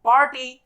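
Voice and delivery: पार्टी with a light r; पार्टी, the r barely said; party, soft r. Shown as a demonstration. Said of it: "ये word को कभी कोई पार्टी नहीं बोलता".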